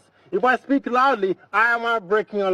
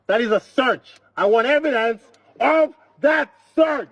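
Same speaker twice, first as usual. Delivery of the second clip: pressing hard, voice rising at the officers; raised voice; 3 semitones higher than usual. Real, not acted. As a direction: driver raising his voice at police. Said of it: "Stop raising your voice".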